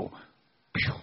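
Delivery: voiceless puff of air; soft "pfff" imitating a spell; magic puff. Storyteller mimics God casting a spell on the turtle, voiceless puff.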